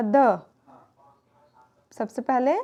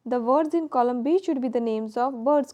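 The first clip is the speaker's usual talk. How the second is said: slow instruction read; much slower than usual. Shown as a demonstration. Teacher reading textbook instruction.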